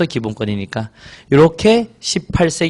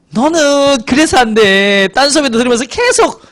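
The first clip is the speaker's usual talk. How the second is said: higher, drawn-out playful telling-off; mock scolding; 7 semitones higher than usual. Teacher teasing a student in class, mock scolding. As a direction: scold in a stretched, raised voice, teasing.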